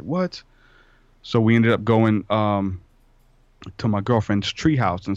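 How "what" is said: high rising disbelieving "what"; surprised. Retold or imitated. Son hearing mom will be days late, surprised. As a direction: voice jumps up in retold disbelief.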